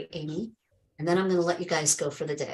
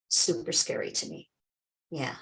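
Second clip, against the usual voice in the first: hushed; 7 semitones lower, 7 dB quieter than usual. Real, not acted. Quiet awed reflection.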